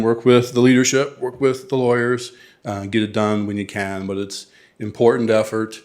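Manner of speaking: lightly voiced coach, a few punched lines; mild coach pep talk, driving the list. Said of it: "I'm gonna use my coach voice".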